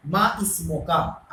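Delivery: each syllable of "मा इस्मो का" drawn out slowly; slow teaching demo. Shown as a demonstration. Teacher slowly models the Arabic question for students. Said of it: "अगर single हम आपसे बात करेंगे, तो कैसे करेंगे बात?".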